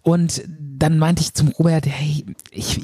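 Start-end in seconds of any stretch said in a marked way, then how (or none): 1.9-2.8 unvoiced start of a retold plea; whispered plea. Dreamer whispering to Robert that he is cold. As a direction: whisper it like freezing in underwear.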